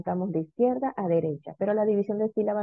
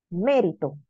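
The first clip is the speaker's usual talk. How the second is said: Mérito with weight on opening MÉ; stress on antepenultimate syllable. Shown as a demonstration. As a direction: lean on MÉ, let rito fall in Mérito. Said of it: "Tercera sílaba, antepenúltima".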